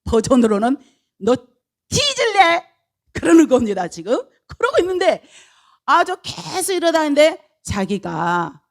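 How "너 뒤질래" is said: high, punchy Gyeongsang threat; Gyeongsang dialect. Shown as a demonstration. Balaam to his donkey, threatening in Gyeongsang dialect. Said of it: "경상도 버-, 버전으로는".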